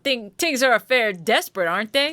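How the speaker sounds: put-on New York tough talk; New York accent. Voicing a game character confronting followers, New York accent. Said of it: "supposed to have a New York accent".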